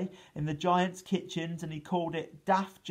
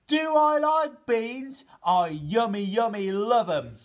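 delighted giant; 6 semitones higher, 6 dB louder than usual. Acted. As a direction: boom it out, thrilled. Giant delighted about beans.

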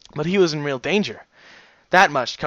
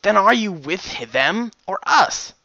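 blunt demand; 7 semitones higher, 5 dB louder, slower than usual. Acted. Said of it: "bluntly demanded".

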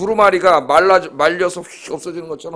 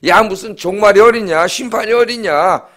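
imitated jeering, raised in volume; mocking scoffer; 4 semitones higher, 4 dB louder than usual. Unbelievers ridiculing talk of the end times, mocking. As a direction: scoff like someone daring judgment to come. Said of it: "그러면서 기독교를 조롱하고".

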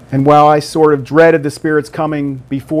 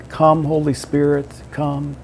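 prayerful invitation; 5 dB quieter than usual. Shown as a demonstration. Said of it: "We just say".

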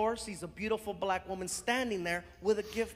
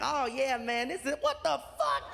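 voice changes abruptly; 2 semitones higher than usual. Retold or imitated. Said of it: "because his voice changed".

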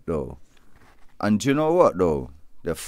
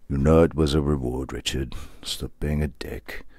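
much softer, lower, telling himself off; higher self voice; 7 semitones lower, 6 dB quieter than usual. Acted. His higher self scolding Richard, low and soft. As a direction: speak low and soft as a stern inner voice. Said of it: "my higher self said to me".

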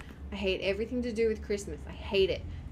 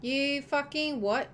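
outraged; 6 semitones higher, 4 dB louder, slower than usual. Real, not acted. Gamer outraged at game.

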